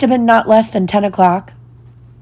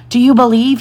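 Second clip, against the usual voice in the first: higher, raised-voice plea; urgent rising question, pitched up; cried appeal; 5 semitones higher, 4 dB louder than usual. A narrator's reading. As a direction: call out to all the dreaming children. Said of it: "he cried".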